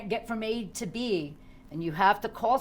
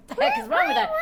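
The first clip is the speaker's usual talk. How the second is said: very high, loud mock alarm; startled cop; 6 dB louder, much faster than usual. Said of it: "this guy is like".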